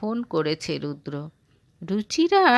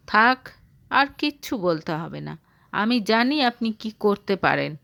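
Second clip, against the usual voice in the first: cold voice. Acted. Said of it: "ঠান্ডা গলায় বলল অর্ণব".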